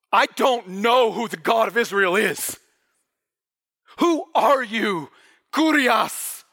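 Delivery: earnest, bewildered pleading; terrified confusion. Acted. Paul in total vulnerability asking who God is, bewildered. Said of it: "terrified to death and utterly confused".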